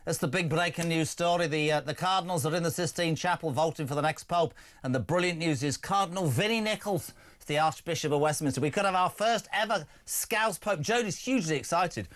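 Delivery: lively put-on Scouse; Scouse accent. Host telling Pete the Pope news in a put-on Scouse accent. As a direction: talk in a mock Liverpool accent. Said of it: "stop doing the Scouse accent".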